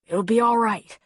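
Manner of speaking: urgent, insistent reassurance; pleading. A narrator's reading. Husband to injured wife, pleading reassurance.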